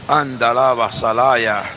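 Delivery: slow low tongues; speaking in tongues. Real, not acted. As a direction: murmur tongues slowly. Glosolalia en culto. (hablar en lenguas lento y grave)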